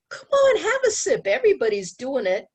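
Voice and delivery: high, coaxing peer voice; coaxing friend. Retold or imitated. Pushy friend coaxing a sip at a party. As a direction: wheedle like a tempting friend. Teacher voicing peer pressure.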